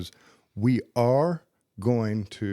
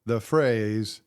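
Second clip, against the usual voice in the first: dramatic slow teaser. Shown as a demonstration. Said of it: "The very last part".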